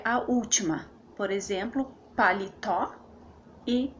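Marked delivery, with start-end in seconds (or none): 2.2-3.0 "paletó", weight on tó with a rising end; final stress. Shown as a demonstration. Teacher giving an example of oxytones, stressed on tó in "paletó". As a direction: stress the last syllable of "paletó". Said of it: "Paletó tá na última sílaba".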